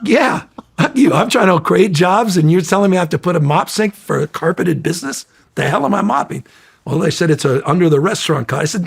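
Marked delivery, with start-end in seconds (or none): 0.0-6.4 heated, higher-pitched outburst; venting real anger about the city's rules; pissed off. Real, not acted. Griping to the host about the mop sink, heated and high. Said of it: "I was pissed".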